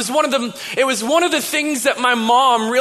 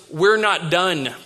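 low, slow, deliberate statement; serious dad; 5 semitones lower, slower than usual. Retold or imitated. Dad to teenage son leaving the table, serious. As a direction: lay it down firmly, unhurried and low. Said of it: "Dad looks at me seriously".

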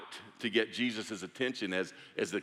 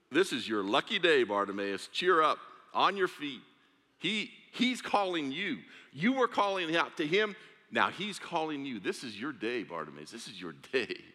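high, eager calling out; excited; 4 semitones higher than usual. Acted. Crowd telling Bartimaeus Jesus calls, eager high cheer. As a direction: cheer him on to his feet.

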